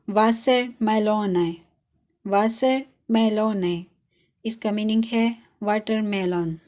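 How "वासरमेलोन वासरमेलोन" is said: वासरमेलोन said slowly with a clear v at the start; slow, careful वासरमेलोन, W said as v; German W as v. Shown as a demonstration. Teacher showing learners the German W as v, slowly. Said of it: "और इससे word है".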